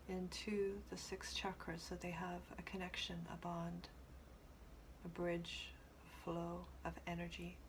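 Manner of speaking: unhurried meditation voice with long pauses; guided meditation. Acted. Teacher guiding listeners to connect with the Earth, calm guided meditation. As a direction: gently lead them inward, leaving space between phrases.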